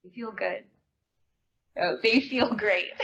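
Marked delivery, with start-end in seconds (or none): 1.8-2.9 slow, laughing through the words; laughing delight. Acted. Answering the friend about new underwear, laughing happily. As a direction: savour it with a laugh.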